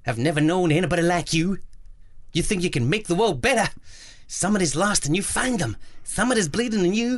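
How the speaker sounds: badly faked Southern American accent. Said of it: "that's my Southern American voice".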